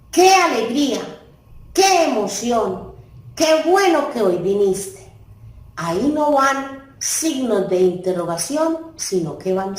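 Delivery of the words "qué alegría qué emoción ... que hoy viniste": bright exclamations, a bit louder; exclaiming with feeling. Shown as a demonstration. Teacher showing exclamations to the class, exclaiming. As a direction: exclaim each one with joy. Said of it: "el qué me sirve para exclamar sentimientos".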